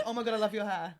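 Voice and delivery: attempted Long Island accent. Retrying the TV medium's line, Long Island accent. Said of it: "I'm hearing your accents too much".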